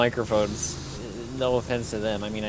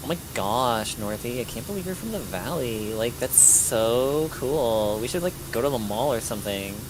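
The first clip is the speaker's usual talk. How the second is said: put-on Valley Girl voice. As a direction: gush like a bubbly mall teen. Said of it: "a stereotypical Valley Girl voice".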